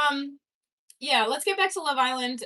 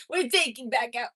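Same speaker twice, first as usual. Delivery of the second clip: put-on French accent. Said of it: "I gotta find the accent".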